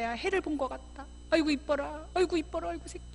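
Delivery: doting welcome. Acted. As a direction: fuss over a child you missed. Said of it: "이렇게 예뻐해주는 어른들이".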